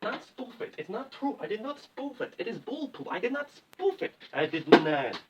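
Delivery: a hint of Tommy Wiseau, quietly insisting; Tommy Wiseau impression. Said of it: "Tommy Wiseau?".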